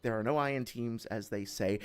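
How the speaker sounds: lightly voiced sportscaster banter; play-by-play hype, a bit lighter; sports announcer voice. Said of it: "announcer voice".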